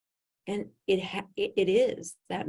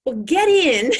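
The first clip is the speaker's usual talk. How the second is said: hurried invite; 7 semitones higher, 12 dB louder, slower than usual. Retold or imitated. Inviting her into car, cold.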